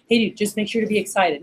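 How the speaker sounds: mock offhand manager; imitated unexcited manager. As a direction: say it with no excitement at all. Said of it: "you're not just talking to your rep".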